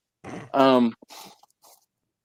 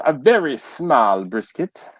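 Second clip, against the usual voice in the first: slow, lightly put-on British comedy voice; a hint of a posh Python sketch voice; Monty Python voice. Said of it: "in my Monty Python voice".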